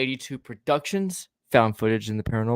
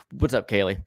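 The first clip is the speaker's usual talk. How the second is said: odd delivery; 4 semitones lower than usual. Shown as a demonstration. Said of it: "I don't know why I said it like that".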